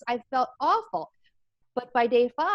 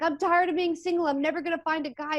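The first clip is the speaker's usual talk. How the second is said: retold crying; 6 semitones higher than usual. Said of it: "and I'm crying".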